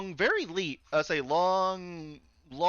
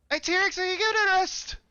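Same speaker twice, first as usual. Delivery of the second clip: high-pitched Cockney heckle; attempted Cockney accent; 4 dB louder than usual. Game master as a dockhand calling to T-Rex, high attempted Cockney. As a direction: have a go at a shouted Cockney voice. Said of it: "a Cockney accent".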